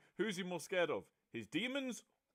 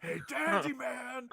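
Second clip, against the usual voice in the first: quoted anime voice; 11 semitones higher, 5 dB louder, much slower than usual. Retold or imitated. Quoting anime lines in voices.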